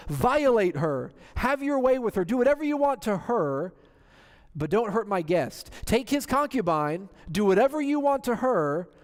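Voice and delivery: a lightly voiced desperate old man; voicing the old man. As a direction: plead with the mob, eager to bargain.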